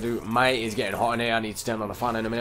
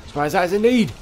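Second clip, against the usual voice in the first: mock squeaky voice; 9 semitones higher, 7 dB louder than usual. Mock Yoda-like phrasing.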